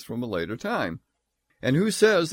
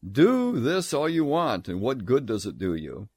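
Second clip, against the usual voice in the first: sarcastic tone. Retold or imitated. Preacher voicing God's scorn at Israel's sacrifices, mildly sarcastic. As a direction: shrug off their sacrifices with mild scorn. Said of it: "the tone of his voice was".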